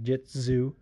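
"jitsu" said with a buzzing z, "jit-zoo". Shown as a demonstration. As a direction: sound the Z in "jitsu". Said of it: "spelled jiu-jitsu with a Z".

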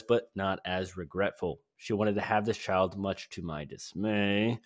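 mock British surfer accent, reading a letter home; the speaker as British surfer. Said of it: "British surfer".

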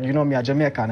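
lightly put-on Jamaican accent; retold line in a Jamaican accent. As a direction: slip into Jamaican patois. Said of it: "I hit her in my Jamaican accent".

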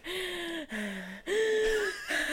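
high, drawn-out mock gasp; frightened gasp. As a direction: act out a scared, high breath. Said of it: "so I was so scared".

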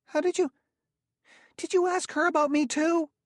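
very high, alarmed question; uneasy. A narrator's reading. Gramianus asking if Bailey questioned her about him, uneasy. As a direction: stammer the question out in squeaky panic. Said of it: "Gramianus looked uneasy".

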